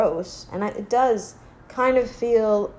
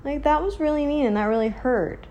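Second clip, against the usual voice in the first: hurt; 8 semitones higher than usual. Retold or imitated. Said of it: "there are times where I'm like".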